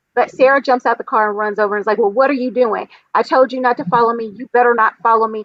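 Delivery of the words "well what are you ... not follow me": mock-stern, very stern voice. Retelling how a woman ran over to the driver following her, mock-stern. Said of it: "She says it in a very stern voice to him".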